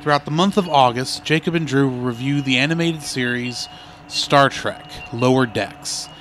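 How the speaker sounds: promo trailer read; announcer voice. Acted.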